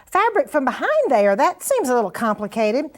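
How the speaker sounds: a hint of a skeptical student; imagined viewer's question. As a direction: put on a mildly puzzled viewer asking Martha. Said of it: "you're gonna say".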